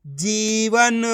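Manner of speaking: जीवन with a long-held जी; teacher sounding out जीवन with a stretched first vowel. Shown as a demonstration. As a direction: draw out the ee in जीवन. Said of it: "खींच के पढ़ा जाता है".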